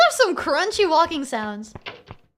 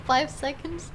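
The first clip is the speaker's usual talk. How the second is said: usual speaking voice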